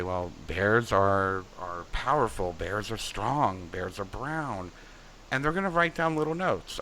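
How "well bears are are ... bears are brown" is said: 1 slow thoughtful dreamee. Shown as a demonstration. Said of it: "You might say".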